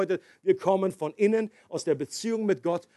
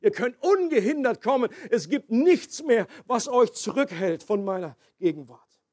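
joyful God; 3 semitones higher than usual. Acted. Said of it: "um zu sagen".

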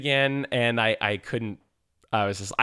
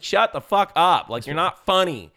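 exasperated; 6 semitones higher, 4 dB louder, slower than usual. Retold or imitated. Venting at annoying character.

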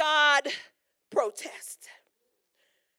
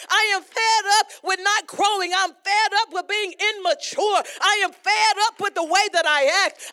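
crying out fed up; 2 semitones higher than usual. Pretend. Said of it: "You need to cry out and say".

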